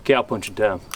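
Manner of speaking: dry, low sassy quip; smart-aleck cowboy answer; sassy remark. Shown as a demonstration. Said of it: "a sassy remark".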